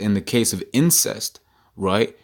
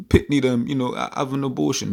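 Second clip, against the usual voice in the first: a hint of a bad Caribbean accent, imitating aunties; lightly voiced Caribbean auntie accent urging an abortion; self-mocking attempt at a Caribbean accent; 4 semitones higher than usual. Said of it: "my terrible Benjamite accent, rather Jam-, uh, Caribbean accent".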